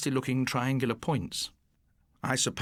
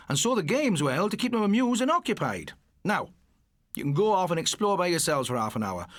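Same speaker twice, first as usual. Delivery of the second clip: lecturing teacher; 3 semitones higher than usual. Acted.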